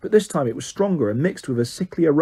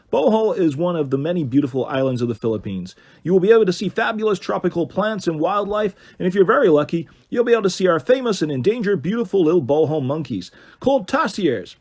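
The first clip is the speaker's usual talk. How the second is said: tour guide voice; 4 semitones higher than usual. Acted. Christian's tour guide speech.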